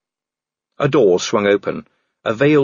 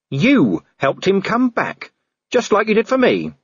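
high, strained accusation; 12 semitones higher than usual. A narrator's reading. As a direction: fling it at her, strained.

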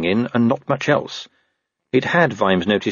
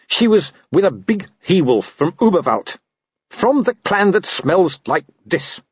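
frightened, whining wolf; cowering wolf pleads; 9 semitones higher than usual. A narrator's reading. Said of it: "the wolf whined".

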